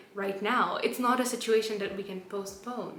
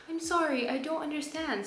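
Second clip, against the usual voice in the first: robot voice; 6 semitones higher than usual. Retold or imitated. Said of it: "says the robot".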